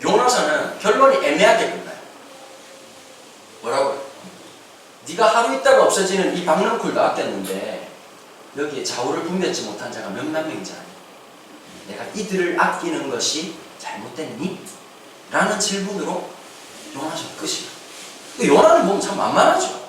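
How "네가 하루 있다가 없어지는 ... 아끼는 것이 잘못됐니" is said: low, soft, slowing reproach; gentle questioning. Retold or imitated. God asking Jonah about sparing Nineveh, gentle questioning. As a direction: voice God reasoning quietly.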